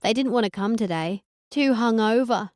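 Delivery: a touch of giggly Hillary; lightly voiced ditzy girl; Hillary twang. Narrator as Hillary to Conan, mild giggly twang. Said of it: "the way a Hillary would giggle".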